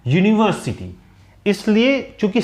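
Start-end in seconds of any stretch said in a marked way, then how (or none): 0.1-1.0 यूनिवर्सिटी opening on a y sound, "yoo"; correct pronunciation. Shown as a demonstration. Teacher showing why it takes no "an", careful pronunciation. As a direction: begin यूनिवर्सिटी with a clear "yoo". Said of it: "इसका जो pronunciation है वो है".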